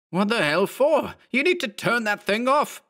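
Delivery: very high, angry bark; strained high-pitched demand, character barking; barked order. A narrator's reading. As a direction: bark it in outrage, pitched far up. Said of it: "Mark barked".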